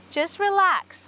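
high, drawn-out reassurance, falling at the end; soothing a horse. Real, not acted. Trainer talks to worried horse, high soothing. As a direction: coax a nervous horse to settle, pitched high.

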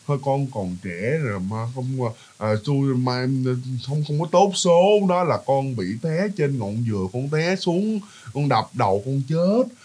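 a hint of the master's soft, even drone; hypnotic monotone. Exorcist soothing the spirit in the mother, soft even drone. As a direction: murmur it evenly, slow and hushed. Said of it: "Cái giọng của ổng cứ đều đều".

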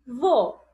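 "vo" as a lone syllable; sílaba separada. Shown as a demonstration. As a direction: say "vo" by itself with a full final o. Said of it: "eu vou separar assim". ("vo" como sílaba isolada)

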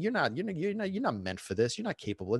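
hushed, sinking self-doubt; inner critic voice. Retold or imitated. Podcaster voicing the doubting thought in his head, soft. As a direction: mutter the put-down to yourself. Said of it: "the first thought in my mind was".

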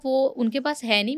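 gentle, coaxing tone; very sweetly. Retold or imitated. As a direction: ease her into it kindly. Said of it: "पहले तो मैंने बहुत प्यार से बोला".

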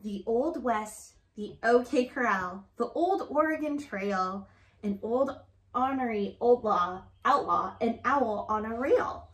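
rhythmic picture-book read-aloud; reading to children. Acted. Reading a rhyming alphabet book to Grace, sing-song read-aloud.

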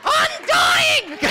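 high, loud, hammed-up moan; loud mock complaint. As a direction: overplay being exhausted. Lion wheezing after his dance.

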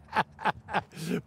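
a quiet retold chuckle; soft chuckle. Friend laughs off his own joke with a quiet chuckle. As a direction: chuckle softly as the friend did. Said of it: "he starts laughing".

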